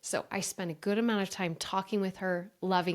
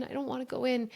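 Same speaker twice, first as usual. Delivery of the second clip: put-on a little girl's plea trailing off; crying child, fading; 5 semitones higher, faster than usual. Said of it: "and she's crying".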